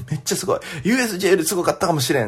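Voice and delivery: quick imitation of Kansai gals; Kansai accent. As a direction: mimic fast Kansai chatter from behind. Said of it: "ずっと後ろで関西弁が".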